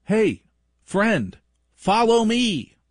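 put-on cheerful child beckoning friends; kid's friendly call. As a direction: sing it out like a cheery kid. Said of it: "She'll look at them and go".

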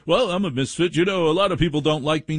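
high, fast mocking whine; mock self-pity. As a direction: parody someone feeling sorry for himself. Mocking a would-be misfit again.

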